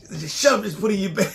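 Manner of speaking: loud, high, bossy order; bossy shout. Retold or imitated. Husband imitating his wife ordering him, a loud bossy shout. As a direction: boss him into packing the towel.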